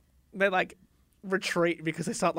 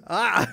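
louder imitated "ah" of surprise; scared mock cry; 4 dB louder than usual. Knights correcting each other's cry, mock fright. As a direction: play a startled gasp out loud. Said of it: "as in surprised and scared".

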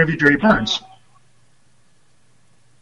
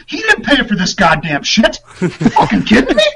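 laughing mock rant; 4 semitones higher than usual. Coach ranting, laughing.

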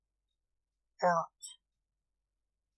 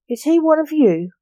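bubbly forgetful goldfish voice; 8 semitones higher, 4 dB louder than usual. A narrator's reading. Goldfish character asks.

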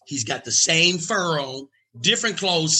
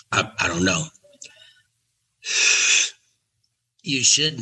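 lower, measured with long pauses; 3 semitones lower than usual. Retold or imitated. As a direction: deliver a verdict like a godfather. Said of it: "And he says".

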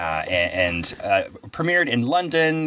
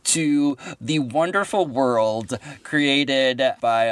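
slow dreamy intro; much slower than usual. Acted. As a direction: stretch the words like a storybook opening.

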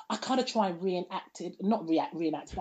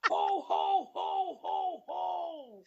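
Santa ho ho ho; 9 semitones higher, much slower than usual. Acted. Santa laugh again.

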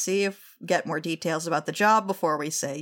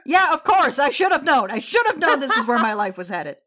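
exasperated; 5 semitones higher than usual. Acted. Captain exasperated.

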